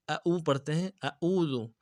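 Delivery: اعوذ with the ain softened to a hamza; wrong plain ain. Shown as a demonstration. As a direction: say اعوذ with a weak glottal stop instead of ain. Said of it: "بالکل غلطی ہے". (اعوذ میں عین کو ہمزہ کی طرح غلط ادا کرنا)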